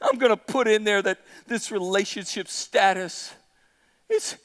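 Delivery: low, subdued mock pout; hammed-up hurt, low and halting at the end; sulking Delilah. Preacher plays Delilah guilt-tripping Samson, sulky and low.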